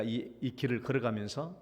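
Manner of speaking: ordinary talk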